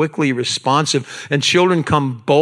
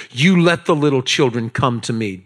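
very angry Jesus; 2 semitones lower than usual. Retold or imitated. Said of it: "here's how I think Jesus said it".

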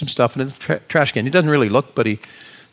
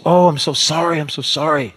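imitating a flustered apology, pitched up at first; very apologetic; 3 semitones higher than usual. Young lady to the customer she frapped, very apologetic. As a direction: gush the sorry as the young lady. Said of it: "she's so apologetic".

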